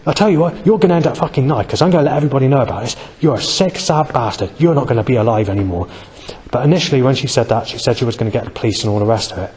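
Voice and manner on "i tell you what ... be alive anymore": imitated threat, pitched up at first; mock angry phone tirade; retold angry shouting. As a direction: mimic her ranting down the phone, hurried in the middle. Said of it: "shouting down the phone at me".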